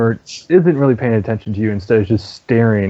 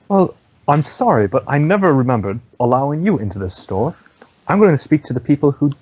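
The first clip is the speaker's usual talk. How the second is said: higher-pitched, lightly voiced snooty merchant; dismissive shopkeeper; 5 semitones higher than usual. Merchant snubbing unwelcome customers in her shop, lightly voiced dismissal. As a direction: politely brush them off, pitched up. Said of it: "she just kinda looks at you and goes".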